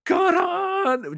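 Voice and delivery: loud. Retold or imitated. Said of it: "And then".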